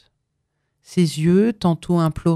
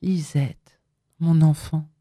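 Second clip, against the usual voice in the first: softest voice; 2 semitones lower, slower than usual. A narrator's reading. Mother gently soothes her hiding daughter. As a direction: soothe her like a frightened child. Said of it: "de sa voix la plus douce".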